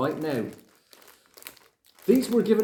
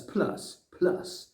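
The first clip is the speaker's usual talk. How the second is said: breathy trailing plus; 4 dB quieter than usual. Real, not acted. Hyping Vegemite.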